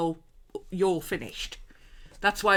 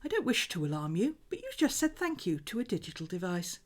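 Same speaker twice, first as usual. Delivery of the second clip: prim mock digital assistant, fairly soft; Siri; 5 dB quieter than usual. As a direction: politely correct someone as a voice assistant. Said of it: "And he went".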